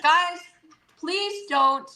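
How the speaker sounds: scolding pets. Real, not acted. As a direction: stop the wrestling animals.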